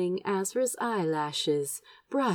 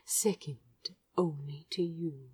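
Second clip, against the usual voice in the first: soft whisper; 3 semitones lower, 9 dB quieter than usual. Acted. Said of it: "Azra's voice brushed softly against his ear".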